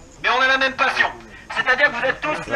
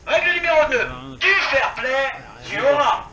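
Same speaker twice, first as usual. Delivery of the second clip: solemn rule recital; 3 dB louder than usual. Acted. Reciting the airsoft rules.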